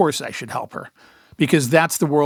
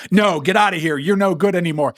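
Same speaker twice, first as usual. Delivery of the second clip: mock TV-drama send-off, pitched up; shooing Lassie away; 4 semitones higher than usual. Shooing her away like Lassie on TV, mock-harsh send-off. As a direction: drive a loyal dog away, lightly hammed-up. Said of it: "like they do Lassie on T V".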